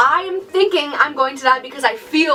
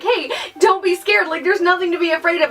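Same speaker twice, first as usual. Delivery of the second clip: higher, faster, breezy mock comforter; mock reassurance; 4 semitones higher than usual. Mocking a friend telling her panic isn't scary. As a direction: brush off the panic like it's nothing. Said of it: "don't just try to sit there and tell me that, like".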